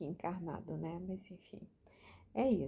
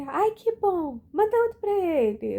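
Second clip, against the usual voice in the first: high, loud happy imitation of the old man; mock delighted old man, much higher and louder; delighted old neighbor; 11 semitones higher, 13 dB louder than usual. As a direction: voice his delighted reply.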